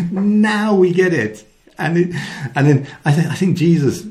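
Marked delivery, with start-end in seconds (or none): 0.1-1.4 much higher, louder, slow cry of realisation; mock eureka. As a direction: act out the disciples finally getting it. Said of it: "It's like".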